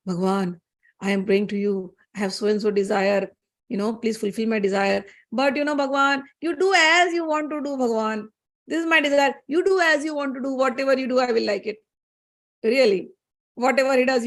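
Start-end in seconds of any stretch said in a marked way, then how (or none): 0.1-11.8 mock pious haggling with God, "you do as you want to do" pitched up; calculating prayer. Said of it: "your mind is very calculative".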